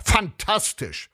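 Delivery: high, stretched-out cry of triumph; thrilled, drawn-out rave; exultant exclamation. A narrator's reading. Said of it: "rief er".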